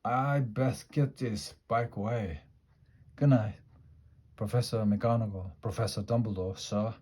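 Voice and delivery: muffled, as if into a handkerchief. Acted. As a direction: talk through a muffled, teary voice. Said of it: "said Hagrid in a very muffled voice".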